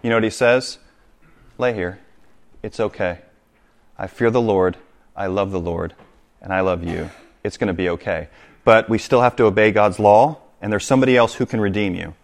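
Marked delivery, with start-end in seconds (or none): 1.6-12.1 gentle reassurance. Acted. Boaz voiced reassuring Ruth at night.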